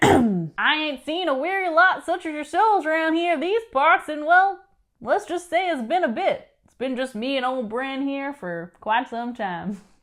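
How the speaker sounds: clumsy, overdone, really bad put-on southern accent. Giving a shout-out to Gertrude Kranz and imagining her voice: Gertrude Kranz in a bad southern accent. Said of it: "southern accents are the only ones I can confidently do really badly".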